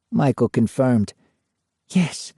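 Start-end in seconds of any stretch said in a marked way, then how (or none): 1.9-2.3 mild dreamy yes; dreamily. A narrator's reading. Lorraine agreeing with Michael in a trance, dreamily. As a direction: let it float out, dreamy. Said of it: "Lorraine said dreamily".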